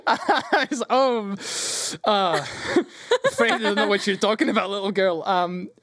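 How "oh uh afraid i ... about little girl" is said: flustered higher-pitched denial; uncomfortable. Acted. Dragonborn denying all to a little girl, uncomfortable. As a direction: stall and deny it awkwardly. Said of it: "He gets very uncomfortable".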